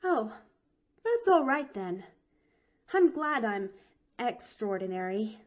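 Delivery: put-on a lightly sighed, relieved girl; a touch of relief in the girl's high voice. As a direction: let the worry go out of her. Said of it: "sighed Pollyanna".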